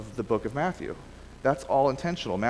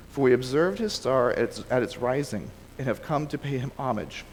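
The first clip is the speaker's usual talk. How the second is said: measured read-aloud of a Bible story; reading from the page; scripture reading. Acted. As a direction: read the passage aloud to a class, phrase by phrase. Reads the scripture passage aloud.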